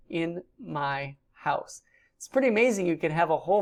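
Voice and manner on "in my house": in my house said very slowly and softly, word by word; slow recap. Shown as a demonstration. Teacher slowly recapping the parts of baveti, slow. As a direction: spell out the meaning slowly, each word apart. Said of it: "So the first beit is in".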